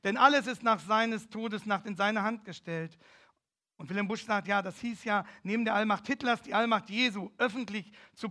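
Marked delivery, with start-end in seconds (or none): 0.0-3.0 loud proclaiming, slow at the start; loud retold proclamation from the church steps; called out. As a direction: keep calling the verse over the crowd.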